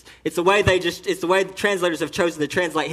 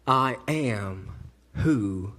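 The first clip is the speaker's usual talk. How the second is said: hushed reverent voice; 11 semitones lower, 7 dB quieter, slower than usual. Acted. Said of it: "He says".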